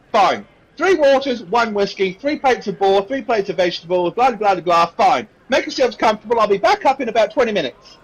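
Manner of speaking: put-upon barmaid reading back orders; brusque barmaid. Acted. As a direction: wrap up the order impatiently. Voices the barmaid.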